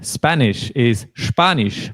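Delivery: Spanish is Spanish said slowly, both S sounds as sh; Spanish is Spanish, slow and clear, sh at start and end; slow teacher model of Spanish is Spanish. Shown as a demonstration. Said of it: "the beginning S and the final S".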